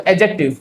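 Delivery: एडजेक्टिव said as a-jective without D; only a J after the first vowel of एडजेक्टिव; silent D. Shown as a demonstration. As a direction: leave the D out of एडजेक्टिव. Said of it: "डी silent है".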